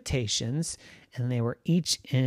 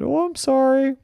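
sheepish apology; 10 semitones higher, 4 dB louder than usual. Acted. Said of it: "sheepishly went back".

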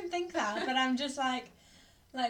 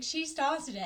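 put-on mildly whiny, higher child's protest; childish self-defence; 5 semitones higher than usual. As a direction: protest like a wronged kid. Acts out child's defence to mum.

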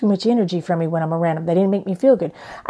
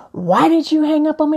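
higher, upset daughter asking; daughter's upset call; 8 semitones higher, 3 dB louder than usual. Retold or imitated. Daughter calling back after hang-up: mildly mocked upset. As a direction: voice the hurt daughter, lightly. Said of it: "she would started".

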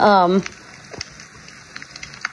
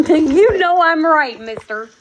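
mock formal; slower than usual. Real, not acted. Calling her pet Mister Marks, slow and mock-formal. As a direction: address the cat like a naughty gentleman.

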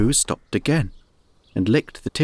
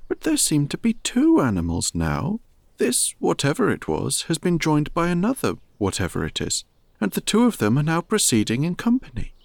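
lightly voiced thoughtful bear, higher; a gentle puzzled bear thinking aloud; a hint of a pondering teddy bear; Pooh Bear; 4 semitones higher than usual. Pooh explains the tracks.

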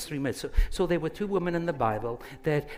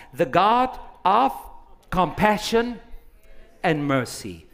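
proclaiming; 3 semitones higher, 3 dB louder than usual. Acted. Proclaiming God's attributes.

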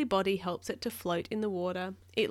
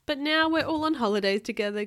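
higher, louder, happy announcement; pleased, lifted storybook voice; grinning cheer; 5 semitones higher, 6 dB louder than usual. A narrator's reading. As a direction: beam with holiday delight. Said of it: "grinned their brother Bob".

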